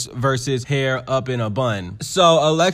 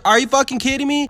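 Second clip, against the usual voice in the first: outraged disbelief; 10 semitones higher, 3 dB louder, faster than usual. Real, not acted. Outraged at the fifty-partners claim.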